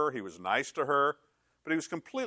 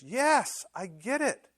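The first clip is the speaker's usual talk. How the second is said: emphatic yes; 10 semitones higher, much slower than usual. Acted. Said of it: "And the guy goes".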